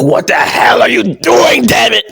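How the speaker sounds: slow shouted old boss, a little hammed; imitating Vince McMahon yelling at the TV; mock angry Vince. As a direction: bark it like the fuming boss at home. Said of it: "Vince McMahon is at home like".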